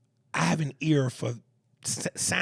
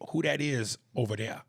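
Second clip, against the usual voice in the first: Southern phrasing. Shown as a demonstration. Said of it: "we say".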